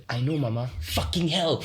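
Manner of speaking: put-on hushed child confiding in mum; soft, secretive little-kid imitation; imitated whisper. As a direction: share it softly like a secret in the ear. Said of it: "she whispers in her ear".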